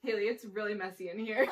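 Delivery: quoting him while laughing; can't get through it without laughing; laughing through the quote. Retold or imitated. Son complaining about the messy car, laughing. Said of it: "he got into my car yesterday and he goes".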